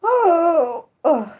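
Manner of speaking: high, loud groan of dismay; frustrated groan. Real, not acted. Streamer upset at saying a name wrong, frustrated groan.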